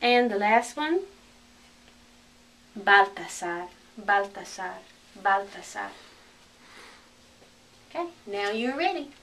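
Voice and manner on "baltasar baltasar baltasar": Baltasar as "bahl-tah-SAR"; Spanish pronunciation. Shown as a demonstration. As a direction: open a's in Baltasar, S in the middle. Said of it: "correct Spanish pronunciation".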